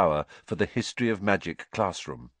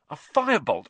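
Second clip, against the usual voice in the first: thrilled; 9 semitones higher than usual. Acted. Wood thrilled by the broom.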